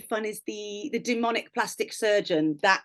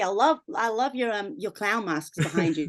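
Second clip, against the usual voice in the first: American accent. Shown as a demonstration. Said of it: "your best American accent".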